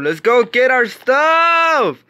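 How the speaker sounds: rally the team, "stuff" drawn out; rallying shout. Real, not acted. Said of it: "repeated, building up".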